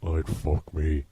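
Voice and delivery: slow creepy low murmur; a creepy killer's slow purr; Buffalo Bill. Retold or imitated. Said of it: "You sound like Buffalo Bill from Silence of the Lambs".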